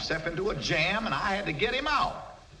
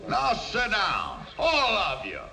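commanding shout; 5 semitones higher than usual. Acted. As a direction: bark it at the whole room. Orders the arguing crowd to sit.

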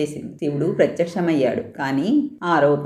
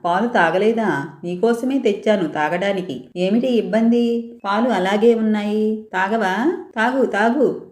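lightly voiced young girl, a touch higher; little girl urging; 5 semitones higher than usual. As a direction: coax a child's god to drink, gently pressing. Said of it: "పురమాయించింది". (చిన్నారి స్వరంతో మెల్లగా పురమాయిస్తూ)

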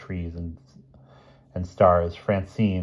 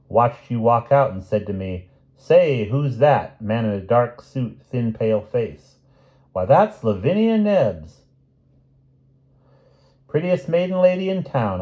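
chatty druggist; 5 semitones higher, 5 dB louder than usual. Acted. Druggist tells Lavinia about the stranger, chatty and animated. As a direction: act out the exchange with high swoops.

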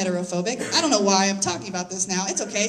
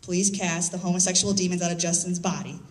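mock solemn prayer; 6 semitones lower than usual. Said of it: "which went like this".

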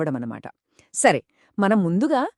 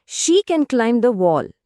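slow model sentence; 3 semitones higher, much slower than usual. Shown as a demonstration. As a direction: climb with a silent b, very slow. (నెమ్మదిగా చదివిన ఉదాహరణ వాక్యం)

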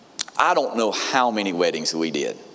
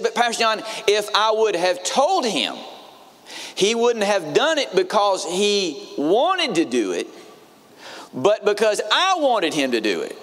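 imitating a hurt, wound-up bride, pitched much higher; upset young bride; 9 semitones higher than usual. Pastor mimics the bride telling her fiance's elk trip, high and aggrieved.

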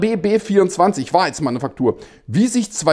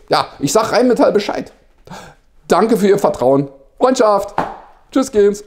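mock phone call. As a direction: play a keen underling reporting to his boss by phone. Acted phone call with Herr Schohl.

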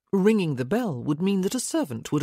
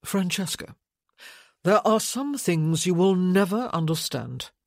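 cool, measured, a touch louder; deliberate coolness; 2 semitones higher, 3 dB louder than usual. Acted. Michael to Francesca, deliberately cool. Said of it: "said with deliberate coolness".

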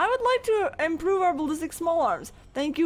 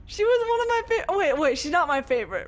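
higher, whiny lament; over-the-top mock mourning for a fallen soldier; mock sad whine; 7 semitones higher than usual. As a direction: whine like a kid who lost a favourite toy. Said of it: "I'm really sad".

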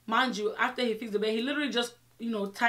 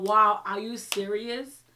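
animated storytime rant; 6 dB louder, much slower than usual. Retold or imitated. Disbelief at bad reviews.

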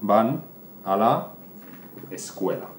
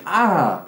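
higher, louder yelp of pain; pained cry; 7 semitones higher, 4 dB louder than usual. Acted. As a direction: cry out as if bitten. Old woman bitten cries out. (grito de dolor de la señora mordida)

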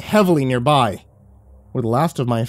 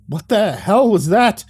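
shocked; 7 semitones higher than usual. A narrator's reading. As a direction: blurt it out stunned. Narrator shocked.

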